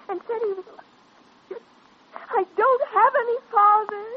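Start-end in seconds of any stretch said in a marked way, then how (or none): 2.1-4.1 choked, tearful denial; on the edge of tears, pleading. Acted. Girl to the doctor, tearful. Distraught girl found in cemetery.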